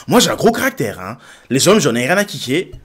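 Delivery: mock feisty woman. Reactor mimicking the candidate's warning, mock feisty. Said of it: "Si une femme dit".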